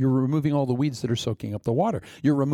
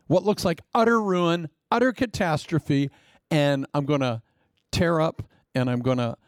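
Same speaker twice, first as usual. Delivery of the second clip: high, teasing mock-cheerful; playful God; 4 semitones higher than usual. God ironically announcing ruin to Habakkuk, mock-cheerful. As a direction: deliver doom like good news. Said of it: "God says".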